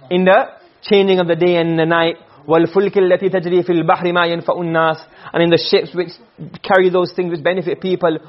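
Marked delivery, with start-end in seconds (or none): 2.5-5.0 fast, fluent recitation of the verse; Quran recitation. Shown as a demonstration. Teacher reciting the ayah to students, fast and fluent. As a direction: recite it quickly and evenly.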